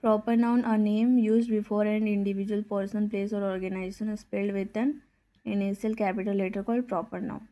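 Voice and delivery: very slow, word by word; slow dictation. Acted. Teacher dictates a definition to the class, very slowly. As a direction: spell it out at writing speed.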